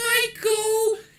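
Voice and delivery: small, very high, meek-sounding little voice. Retelling an overheard beating, doing the little voice that pipes up. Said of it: "this little voice being like".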